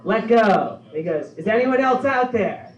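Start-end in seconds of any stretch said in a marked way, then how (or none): 0.0-0.8 higher, louder booming command; voice of God. Retold or imitated. God answers the man. 1.4-2.7 higher, louder frantic call; desperate shout. Retold or imitated. Man rejects God's answer.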